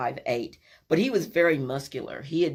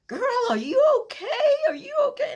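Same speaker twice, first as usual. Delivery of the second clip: high, quick worried voice; worried friend; 4 dB louder, faster than usual. Retold or imitated. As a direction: check on the girl fast. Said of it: "Eula's like".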